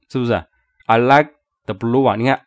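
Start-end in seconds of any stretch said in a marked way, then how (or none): 0.9-2.2 "like" stands out strongest, "blue" also weighted; teacher demonstrating stress on "like" and "blue". Shown as a demonstration. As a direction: punch "like" and "blue", keep "the" light. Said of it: "它有两个单词比较重".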